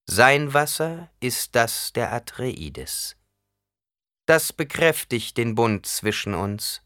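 slow solemn desert chieftain; measured, grave, unhurried delivery; Stilgar. Acted.

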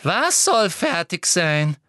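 slow, insistent Umbridge; pressing. A narrator's reading. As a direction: push her to answer. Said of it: "drängte Umbridge". (drängend)

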